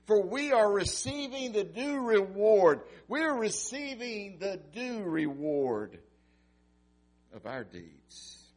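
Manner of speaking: high, loud stress on are; impassioned confession. Acted. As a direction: proclaim the guilt fully. Criminal confessing guilt.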